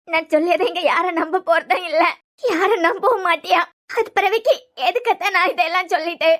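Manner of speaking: weepy, resigned protest; tearful despair. Acted. Daughter telling aunt nobody will believe her, tearful despair. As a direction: let the words catch with crying. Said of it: "சொல்லாம அழுதுகிட்டே இருந்தா".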